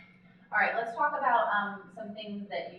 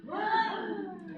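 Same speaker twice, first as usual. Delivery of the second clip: high, loud word gasped in; inhaled speech; 14 semitones higher, 5 dB louder than usual. Shown as a demonstration. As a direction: call it out on the in-breath. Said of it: "on that gasp".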